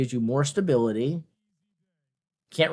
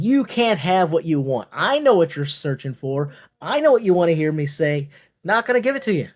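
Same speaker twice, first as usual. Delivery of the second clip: a hint of a taunting villain, voice climbing at the end; mock villain; 3 semitones higher, 4 dB louder than usual. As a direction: tease them like a playful bad guy. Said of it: "total villain arc".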